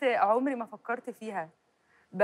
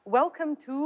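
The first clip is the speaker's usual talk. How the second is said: British accent; 4 semitones higher, much slower than usual. Shown as a demonstration. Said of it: "بس لو British هيكون مثلًا".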